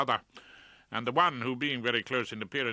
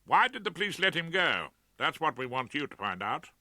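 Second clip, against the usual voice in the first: put-on eager young son; 6 semitones higher, 4 dB louder than usual. A narrator's reading. Son presses the barrister.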